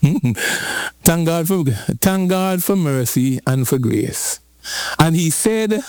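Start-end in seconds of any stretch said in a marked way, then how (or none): 0.0-4.4 slow thanks. Real, not acted. Preacher slowly thanking God.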